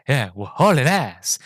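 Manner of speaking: slow, drawn-out echo in a put-on voice; Enrico. Innocent passenger repeating the driver's phrase, slow character voice. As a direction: mimic the naive passenger, stretching the words. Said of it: "Rowan Atkin's character's like".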